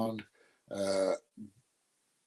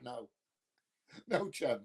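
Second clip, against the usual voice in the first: whispered refusal; 4 semitones higher, 9 dB quieter than usual. Real, not acted. Refusing request for Christmas song.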